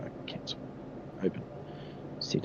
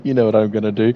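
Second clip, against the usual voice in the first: mustache twirling villain; 8 dB louder, faster than usual. Acted. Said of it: "my villain voice".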